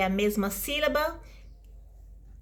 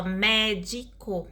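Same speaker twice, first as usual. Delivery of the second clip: "médico" parted evenly into mé, di, co; syllable by syllable; much slower than usual. Shown as a demonstration. Teacher dividing an example word, syllable by syllable. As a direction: say "médico" in three separate syllables. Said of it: "Por exemplo".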